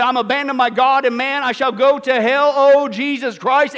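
loud anguished last words, slowing at the end; despairing dying cry. Retold or imitated. Preacher voicing Voltaire's last words, loud anguished cry. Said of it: "He said".

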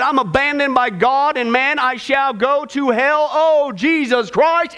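slow, despairing deathbed line, drawn out at the end; a retold dying man's slow lament; dragged despairing last words. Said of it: "He said".

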